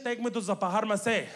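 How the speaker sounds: "pharmacy" said "pahar-ma-say" with a breathy p; uncle's pharmacy. Retold or imitated. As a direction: mangle "pharmacy" into pah-har-ma-say. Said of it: "can't say pharmacy".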